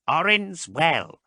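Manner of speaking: high, slow, frail answer; Marast's high voice. A narrator's reading. Marast telling Haas his homeworld, lightly voiced.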